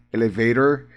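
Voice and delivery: "Elevator" with the t as a quick tapped r; American tapped t. Shown as a demonstration. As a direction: say "Elevator" the American way, EL-e-vay-der. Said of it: "ó, o T, né?".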